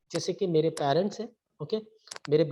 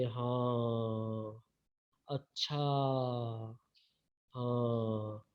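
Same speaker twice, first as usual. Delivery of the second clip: drawn-out, sleepy hmm-yes replies; very slow, low and soft filler replies; very slow speech; 5 semitones lower, 6 dB quieter, much slower than usual. Shown as a demonstration. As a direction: drag each word out lazily like a slow talker. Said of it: "धीरे-धीरे बोलते हैं, जैसे कि".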